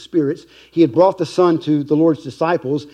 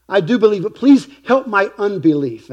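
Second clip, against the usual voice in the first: higher, louder desperate plea; crying out; 6 semitones higher, 5 dB louder than usual. Acted. Desperate father crying out to Jesus, loud plea. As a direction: cry it out to Jesus, pleading. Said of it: "cries out".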